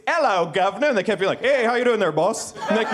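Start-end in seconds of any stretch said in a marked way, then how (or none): 0.1-0.9 lightly hammed-up British greeting; British accent, patiently demonstrated; mock British accent. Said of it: "it sounds like a British person". 1.4-2.5 botched British turned Nova Scotian; hammed-up Nova Scotian greeting; mock Nova Scotian accent. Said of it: "The Nova Scotian accent".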